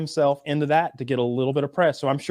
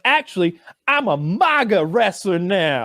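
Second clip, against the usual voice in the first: mocking Colby; 3 semitones higher, slower than usual. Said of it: "And he was like".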